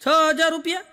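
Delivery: hearing the price and echoing it in disbelief; shocked echo. Retold or imitated. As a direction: repeat the price back in shock.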